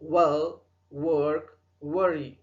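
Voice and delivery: well, work, worry begun with rounded lips. Shown as a demonstration. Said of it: "डब्ल्यू में round your lips". (well, work, worry में गोल होंठों वाला व)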